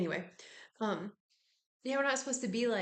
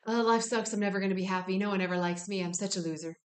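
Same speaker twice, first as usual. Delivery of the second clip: louder, whiny mock moaning about life; mock complaining friend; 4 dB louder, faster than usual. Someone complaining to you, louder mock whine. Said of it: "They're complaining".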